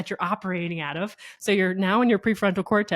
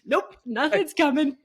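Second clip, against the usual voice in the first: mock giving up; 8 semitones higher than usual. Mocking own first-day gratitude attempt.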